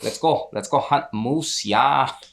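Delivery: over-the-top cartoonish Midwestern accent. Explaining how people in the midwest sound, demonstrating: exaggerated midwest accent. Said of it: "Midwest accent".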